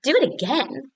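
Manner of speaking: very high, loud, drawn-out cheer; high excited shout. Acted. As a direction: cheer the dragon on like a fan. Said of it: "And Elizabeth shouted".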